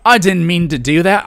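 a cheery Australian accent, badly attempted; clumsy Australian accent apologizing to a stingray; Steve Irwin. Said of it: "I don't know how to do an Australian accent".

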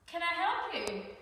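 sudden polite question; librarian voice. Acted. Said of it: "librarian speaks".

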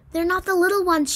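high-pitched little girl's mock sob; mild sob. A narrator's reading. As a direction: whine it like a tearful child. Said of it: "she sobbed".

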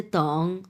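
তং with a rounded "ong", drawn out slowly; correct pronunciation demo. Shown as a demonstration. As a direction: model তং with "o", not "e". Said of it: "এগুলো উচ্চারণ আসলে ভুল". (সঠিক উচ্চারণে তং)

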